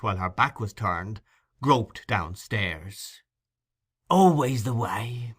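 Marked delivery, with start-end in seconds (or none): 4.1-5.3 muttered to himself. A narrator's reading. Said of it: "muttered the Jew to himself".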